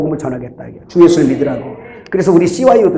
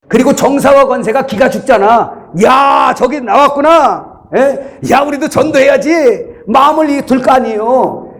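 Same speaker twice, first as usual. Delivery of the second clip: sustained high, insistent sermon voice; rally the congregation with raised pitch; fervent preaching; 7 semitones higher than usual. Real, not acted. Preacher urging congregation not to be ashamed, fervent preaching.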